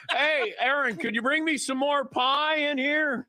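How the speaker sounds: high, lazy demanding guest voice; mock-entitled houseguest calling to the kitchen. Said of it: "mock request to pregnant host".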